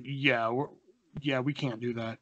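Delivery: soft, low, hesitant letdown; reluctant refusal. Retold or imitated. Buddy says he can't take him, reluctant. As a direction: imitate a buddy mumbling an excuse.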